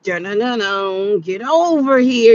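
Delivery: lightly imitated video game catchphrase; playful mock game announcer; Mortal Kombat. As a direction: hum the theme, then mimic the fighter's call. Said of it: "that was Mortal Kombat".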